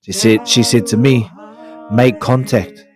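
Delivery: sexy voice. Pretend. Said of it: "push your sexy button voice".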